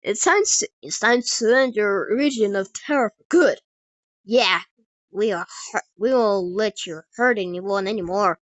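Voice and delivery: loud heroic declaration; bold challenge. Acted. Heroes confronting the raging giant, loud and bold. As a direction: declare it forcefully as a final warning.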